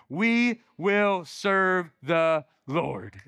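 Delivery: drawn out, every word spaced and firm; slow unison recitation. Shown as a demonstration. Congregation reciting Joshua's vow together with the pastor, slow and deliberate. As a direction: say it together, slowly and steadily. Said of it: "say this last part with me".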